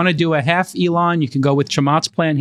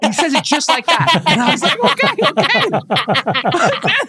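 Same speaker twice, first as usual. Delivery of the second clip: giggling through the words, high; laughing; 10 semitones higher, slower than usual. Real, not acted. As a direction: laugh while answering. Laughing while retelling.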